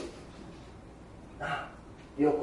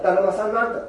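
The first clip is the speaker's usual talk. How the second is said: Daruma's words; 6 dB louder than usual. Retold or imitated. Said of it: "って言ったのよ".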